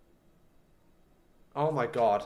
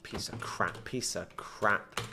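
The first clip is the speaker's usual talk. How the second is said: soft, whispered, lower curse; 8 semitones lower, 11 dB quieter, slower than usual. Real, not acted. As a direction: hiss it under the breath. Muttering at failure.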